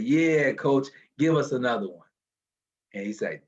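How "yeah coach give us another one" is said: defiant call. Retold or imitated. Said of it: "we both said".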